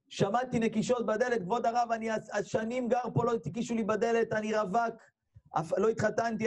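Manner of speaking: high, imploring voice without real sobs; retold tearful confession. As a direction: pour it out as an acted plea. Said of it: "הוא התחיל לבכות פתאום". (וידוי בוכה מבוים)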